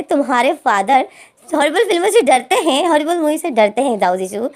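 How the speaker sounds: teasing line broken by a laugh, pitch up; mocking laughter. Friends mocking Zhao Jishu, laughing through the taunt. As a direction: laugh at him while teasing. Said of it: "ज़ोर-ज़ोर से हंस रहे थे".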